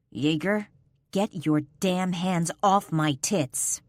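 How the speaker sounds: hissed through gritted teeth; a touch of clenched jaw anger. Acted. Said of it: "Through gritted teeth".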